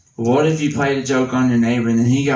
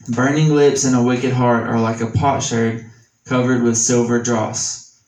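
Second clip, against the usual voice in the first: measured, slightly raised reading of scripture. Acted. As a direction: read the verse with weight, a touch slower. Reads Proverbs in scripture voice.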